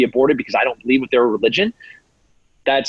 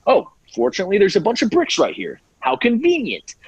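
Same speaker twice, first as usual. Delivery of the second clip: sarcastic mock; 5 semitones higher than usual. Imagined rioter finding bricks.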